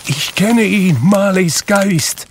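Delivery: high, loud, slow cry of recognition; flaring, drawn-out exclamation; fire crying out. A narrator's reading. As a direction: call out the ghost's name like a flaring fire. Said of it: "als riefe es".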